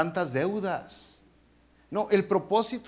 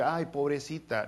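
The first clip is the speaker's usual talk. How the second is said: mock self-pity; 5 dB quieter than usual. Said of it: "No es nomás porque".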